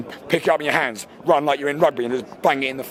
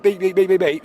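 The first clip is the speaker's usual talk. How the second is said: higher-pitched string of beeps; rapid spoken beeps, pitched up; mock censor bleep; 4 semitones higher than usual. Shown as a demonstration. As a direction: imitate the bleeps covering swear words. Bleeps after apologising for swearing.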